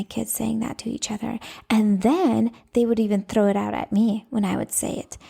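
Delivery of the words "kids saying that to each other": half-whispered, confiding; hushed aside. Real, not acted. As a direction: lean in and let it out under your breath. Confiding a surprising discovery.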